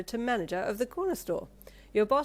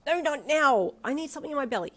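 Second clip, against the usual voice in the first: higher, louder playful protest; playful refusal; 8 semitones higher, 7 dB louder than usual. A narrator's reading. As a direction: swat him off laughing.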